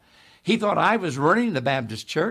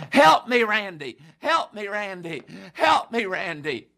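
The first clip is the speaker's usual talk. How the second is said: imitated tearful plea; 2 semitones higher than usual. Preacher acts out weeping John begging him, tearful mock plea. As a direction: call out for help as if crying. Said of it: "he's, he's crying".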